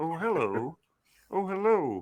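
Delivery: very high-pitched frog puppet voice. Doing voices in a conversation about movies, Kermit voice. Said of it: "just a notch away from Kermit".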